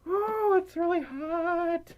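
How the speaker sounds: very high drawn-out whine; squeaky-high overheated moan; whining about the heat. Real, not acted. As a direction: stretch it out high and slow, complaining. Complaining of being too hot.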